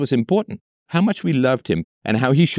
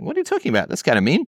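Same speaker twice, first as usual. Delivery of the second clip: mock hurt wife; 5 semitones higher, faster than usual. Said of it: "She'd be like".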